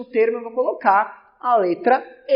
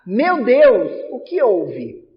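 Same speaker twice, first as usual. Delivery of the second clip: exclaiming to God; 3 dB louder, much slower than usual. Shown as a demonstration. Teacher acting an evocation of God, louder exclamation. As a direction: cry out to God in alarm. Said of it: "Quem que eu tô evocando?".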